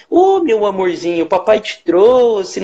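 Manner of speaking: put-on a sing-song, childish baby-talk demo, lightly done; mock baby talk. Shown as a demonstration. Therapist demonstrating the baby talk to avoid, mocking. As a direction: show the voice adults wrongly use on kids. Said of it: "a gente tem que falar infantilizado".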